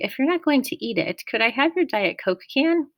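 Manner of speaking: high-pitched, timid request. A narrator's reading. Nervous friend asks for an empty can, timid. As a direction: ask meekly, voice lifted. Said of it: "Grover asked timidly".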